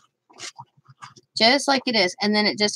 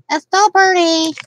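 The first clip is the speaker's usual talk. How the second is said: cutesy repeated compliment; higher, louder sing-song; 8 semitones higher, 5 dB louder than usual. Pretend. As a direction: stress on still, raised pitch. Repeats phrase in two ways.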